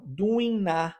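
doing na: the n of "doing" joined onto "a", said slowly; "doing na" slow, final n linked to next vowel; linking doing into a. Shown as a demonstration. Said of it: "a gente une". ("doing na" devagar, com o n ligado ao a)

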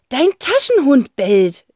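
dry. A narrator's reading. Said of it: "stellt Zack trocken fest".

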